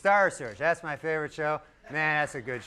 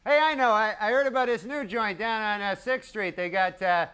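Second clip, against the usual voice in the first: lightly raised, brisk mock invitation to a wife; mock casual husband; 5 semitones higher than usual. Husband suggests a night out to his wife, light mock casual voice. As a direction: pitch a night out to your honey. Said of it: "you never hang around and go".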